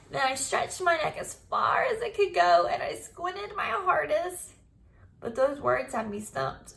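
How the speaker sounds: put-on lively storybook read-aloud for kids; reading to children. A narrator's reading. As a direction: tell it like a chapter book to the class. Teacher reads Junie B story aloud.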